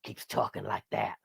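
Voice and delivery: slow, put-on TV agent voice; John Doggett. Host mimics the X-Files agent talking to Scully, Doggett impression. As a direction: draw it out in a dry impression. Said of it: "I was doing a John Doggett voice".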